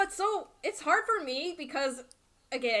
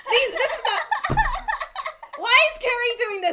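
laughing protest; 8 semitones higher, 4 dB louder, slower than usual. Real, not acted.

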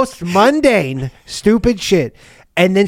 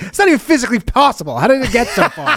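incredulous outburst; 5 semitones higher, faster than usual. Acted. Acts incredulous townsfolk, laughing.

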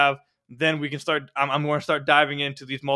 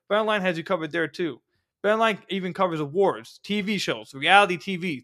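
ad read. Acted. Sponsor ad read.

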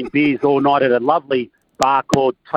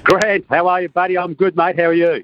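hearty, higher-pitched Aussie greeting; strong Aussie accent; 4 semitones higher than usual. Real, not acted. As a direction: greet a mate in broad Australian. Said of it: "tone that Aussie accent down".

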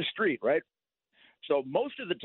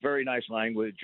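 sarcastic retort; 4 semitones lower than usual. Retold or imitated. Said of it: "Sometimes I'll say something like".

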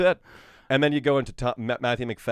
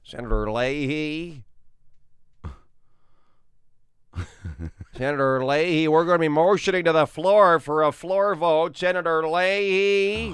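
Chuck Grassley impression; 5 semitones higher, 5 dB louder than usual. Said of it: "Chuck Grassley".

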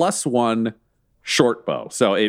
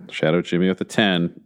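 dramatic announcer voice; 8 semitones lower than usual. Acted. GM announces dramatic character name.

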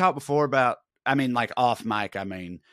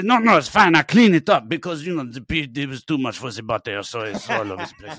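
put-on louder French accent, laughing edge; French actor reassuring the flight attendant, louder French accent; 5 dB louder than usual. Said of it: "I say".

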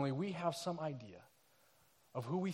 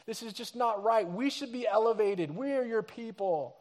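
louder, aggrieved protest of an oppressed crowd; indignant complaint; 4 semitones higher, 7 dB louder than usual. Retold or imitated. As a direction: demand fairness, raised and fed up. People complaining about their oppression.

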